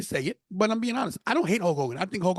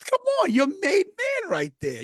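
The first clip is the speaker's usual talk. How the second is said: slow, much higher, shouted; excited shout; hyped; 13 semitones higher, slower than usual. Real, not acted. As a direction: sell it with big hype. Hyping himself up.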